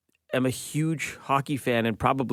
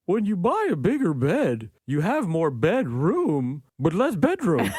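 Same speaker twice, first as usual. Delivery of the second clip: slow, higher, musing put-on voice; a pondering pet, drawn out and higher; deep-thinker dog voice; 4 semitones higher, slower than usual. The dog Coffee shares a shower thought, slow and higher, as a musing pet. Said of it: "Sometimes she'll say stuff like".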